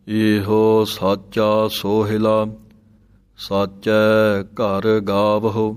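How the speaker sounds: drawn-out Gurbani reading; slow recitation. Shown as a demonstration. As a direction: recite each word slowly and evenly. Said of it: "teacher recites verse slowly".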